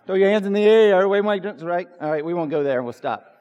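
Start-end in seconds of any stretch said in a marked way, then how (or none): 0.1-1.9 loud, playful hype-man call. Pretend. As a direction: get the crowd going like a rapper. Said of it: "I kinda feel like a rapper".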